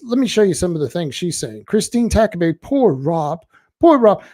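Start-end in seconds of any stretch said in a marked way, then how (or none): 2.6-4.2 mock pity. Mocking troll's pitying comment.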